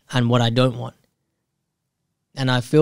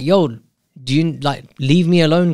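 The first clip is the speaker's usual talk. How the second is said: a mock annoyed snap, louder and higher; retold irritation, half-yelled; irritated outburst; 4 semitones higher, 3 dB louder than usual. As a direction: brush her off, fed up. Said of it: "I was getting pissed off".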